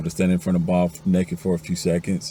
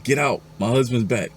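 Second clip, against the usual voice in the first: mildly acted panicked shout, pitched high; high, urgent mock yell; 6 semitones higher than usual. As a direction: wake up with a half-shouted warning. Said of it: "She wakes up shouting".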